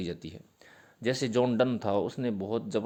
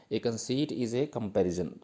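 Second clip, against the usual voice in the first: slow dictation; much slower than usual. Shown as a demonstration. Dictating English definition to students.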